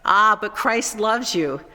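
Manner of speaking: retold with a touch of breezy flippancy; flippant. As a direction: toss it off like a teasing reminder. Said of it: "flippantly say".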